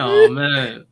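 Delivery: high shrieking laugh through the words; cracking up, barely getting it out; howling with laughter; laughing hard. Real, not acted. Hosts cracking up at rant.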